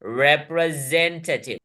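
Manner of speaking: रिप्रेजेंटेटिव slowly, every syllable distinct; spoken in segments. Shown as a demonstration. Teacher counting parts for students, रिप्रेजेंटेटिव slowly segmented. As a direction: measure out रिप्रेजेंटेटिव in five joined beats. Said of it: "बड़े बड़े शब्दों को हम खंड में बोलेंगे".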